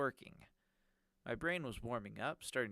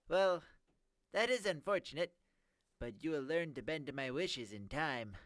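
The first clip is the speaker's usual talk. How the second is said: high nerdy villain voice; 5 semitones higher, 4 dB louder than usual. Acted.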